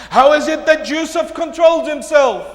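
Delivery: loud, high preaching question; projected and insistent; forceful question. Real, not acted. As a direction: throw the question out to the congregation. Same question repeated at full force.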